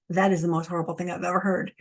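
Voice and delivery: quick, aghast gasp of disbelief; voicing a horrified viewer, hurried; shocked listener. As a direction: rush it out as an appalled listener. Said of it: "some of you are like".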